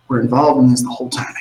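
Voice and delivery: whisper. Acted. Conspiratorial telling.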